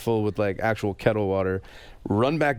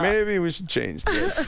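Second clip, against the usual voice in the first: driver deadpan; 10 semitones higher, slower than usual. Retold or imitated. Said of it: "The driver's like".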